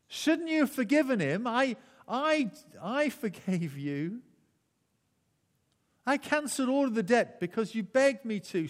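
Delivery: a mild hammed-up angry master. A narrator's reading. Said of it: "And in his anger".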